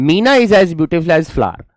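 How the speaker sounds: slow, spelled-out dictation of the sentence; measured classroom dictation. Shown as a demonstration. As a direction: read it slowly for students to copy. Teacher dictating example sentence.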